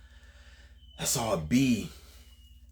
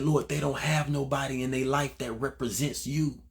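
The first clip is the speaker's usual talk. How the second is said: tearful plea; 5 semitones higher than usual. Retold or imitated. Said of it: "my heart was real deal crying".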